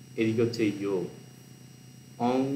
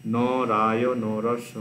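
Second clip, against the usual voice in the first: slow drill recitation; 4 dB louder, much slower than usual. Shown as a demonstration. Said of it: "split করে দেওয়া হয়েছে".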